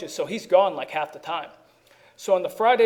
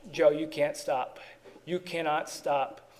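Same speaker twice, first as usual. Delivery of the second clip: softer and slow, a sober inner realization; quiet inner voice; 6 dB quieter, slower than usual. Retold or imitated. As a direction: let it land slowly, like a quiet truth. Moment of clarity, inner voice.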